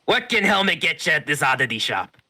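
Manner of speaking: high, loud merchant voice; shopkeeper voice. Acted. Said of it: "Helmet's Oddities open again".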